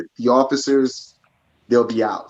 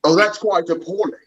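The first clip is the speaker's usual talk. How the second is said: mock English accent, pitched up; 5 semitones higher than usual. Teasing a cohost with her own complaint, mock English accent. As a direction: play quite the appalled Englishman. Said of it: "we'll do our English accents".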